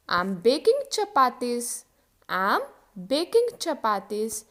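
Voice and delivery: I am baking chapatis, slowly; slow model sentence. Shown as a demonstration. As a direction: drill it slowly twice. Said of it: "example देखो". (धीरे-धीरे बोलें)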